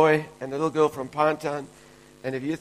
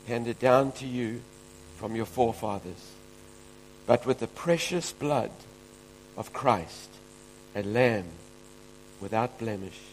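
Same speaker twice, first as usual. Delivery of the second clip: scripture reading; 3 semitones lower than usual. Real, not acted. Pastor reading First Peter to the congregation, measured and reverent. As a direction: read the verses reverently.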